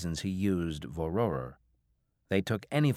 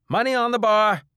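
high, loud order; demanding bar owner; 11 dB louder than usual. Acted. Bar owner demanding cash from drinkers, loud command. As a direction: call for payment over the bar.

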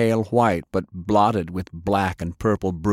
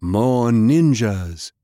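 loud, drawn-out warning bellow; 2 semitones higher, 5 dB louder, much slower than usual. A narrator's reading. Gunman spotting intruders, bellowing a warning. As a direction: bellow it slowly from behind the gun. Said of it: "Someone bellowed from behind the gun".

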